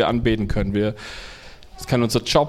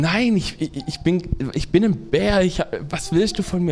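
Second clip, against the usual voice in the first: upset bear; 4 semitones higher than usual. Acted. Bear insists he is a bear.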